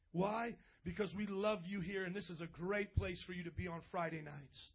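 measured, subdued urging with pauses; pastoral altar appeal. Real, not acted. Pastor asking bowed heads to choose a church, subdued appeal. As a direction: gently press them toward a decision.

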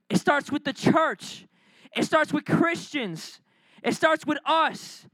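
slow, stress on starts each time; emphatic repetition. Real, not acted. Preacher warning church judgment starts with them, slow emphatic. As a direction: hammer starts, slowly. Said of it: "repeated emphatic slow".

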